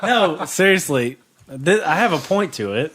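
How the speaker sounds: laughing, high, slowed by giggles. Real, not acted. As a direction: talk through the laughter. Laughing back at the question.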